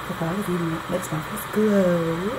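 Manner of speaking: lightly skim the line and stretch "glow" upward; rhyme shown. Shown as a demonstration. Teacher showing what rhymes with hello, stretched GLOW. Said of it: "It rhymes".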